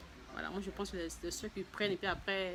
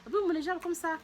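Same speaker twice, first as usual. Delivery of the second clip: husband's surprised question; 9 semitones higher than usual. Retold or imitated. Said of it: "Il dit, il dit".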